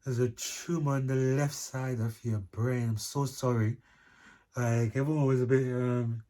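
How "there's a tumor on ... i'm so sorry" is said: slow, understated bad-news delivery; gently acted grave apology; imitating somber doctor. Doctor breaking tumor news to patient, mildly somber. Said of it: "in a somber mood".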